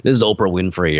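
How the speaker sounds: a hint of news anchor voice; Oprah Winfrey. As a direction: lightly mimic an anchorwoman introducing herself. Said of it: "that's how she talks with that deep a voice".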